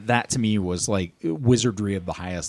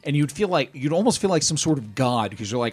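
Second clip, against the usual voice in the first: put-on old man voice; 6 semitones higher than usual. Old man bit continues.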